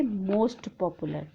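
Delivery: most popular drawn out slowly and quietly; slow, hushed model pronunciation; slow and soft. Shown as a demonstration. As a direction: stretch most popular for the class. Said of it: "तो हम कहेंगे".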